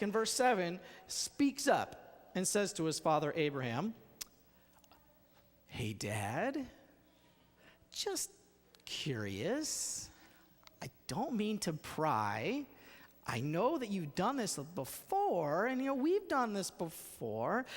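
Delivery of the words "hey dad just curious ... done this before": casual curious son. Acted. Isaac voiced casually asking father.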